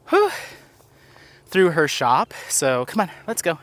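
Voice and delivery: winded puffing while hiking; breathless, pushing up the trail; out of breath. Real, not acted. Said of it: "I don't know why I'm so winded".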